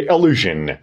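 allusion said "a-LU-zhen" with a light first vowel; model pronunciation. Shown as a demonstration. Teacher modelling the new word for learners, careful allusion. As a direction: say allusion clearly, first sound between A and E.

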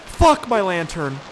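loud, high, drawn-out curse; frustrated shout. Real, not acted. Player lost in storm without lantern, frustrated shout. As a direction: yell it slowly in frustration.

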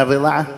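«الرضاعة» quickly, with an i after the r; kasra on ra. Shown as a demonstration. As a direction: say «الرضاعة» as ar-ridaa'a. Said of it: "خطأ، لحن جلي". («الرضاعة» بكسر الراء)

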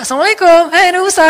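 loud, high, cheerful salam; eager mother greeting the prophet loudly; excited greeting. Retold or imitated. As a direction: burst in full of enthusiasm. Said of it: "udah semangat sekarang".

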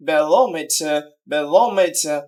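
"barometer" with stress on ROM; stress on third-last. Shown as a demonstration. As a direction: hit the ROM of "barometer", then fall. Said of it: "third from the last syllable". ("barometer"-এর ROM অংশে জোর)

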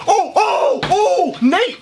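high, laughing cry of disbelief; exasperated disbelief. Real, not acted. Reacting to Nate's reply to John, disbelieving laugh. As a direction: gasp at it, half laughing.

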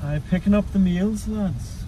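lightly put-on Irish accent. Shown as a demonstration. Customer collecting meals at the drive-thru, put-on Irish accent. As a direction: keep up a mock Irish accent. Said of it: "do this order in an Irish accent".

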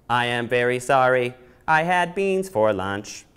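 slow, sheepish robot apology. Acted.

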